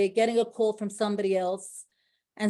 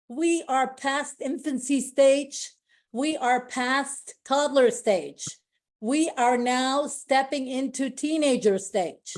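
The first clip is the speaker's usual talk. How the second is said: slow, raised, deliberate steps; slow rallying build; 4 semitones higher, slower than usual. Real, not acted. Rallying her team at the awards, slow and deliberate. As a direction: lay each stage down slowly, building up.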